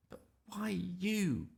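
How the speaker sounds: sneering whisper, slow. Acted. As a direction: hiss it scornfully at your brother. Sister scornful aside.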